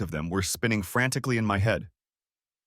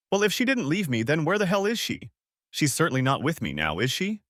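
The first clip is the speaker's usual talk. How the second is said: getting louder and louder; 7 semitones higher than usual. A narrator's reading. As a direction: voice rising with each question. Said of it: "I spoke louder and louder".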